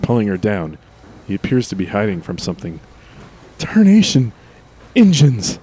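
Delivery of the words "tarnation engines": put-on loud, high old-timer yell; old prospector. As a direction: shout like a startled old-timer. Frontier exclamation.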